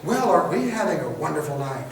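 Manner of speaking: mock-pleasant passive-aggressive jab. Shown as a demonstration. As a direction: sugar it while clearly being annoyed. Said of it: "if I try and be passive-aggressive".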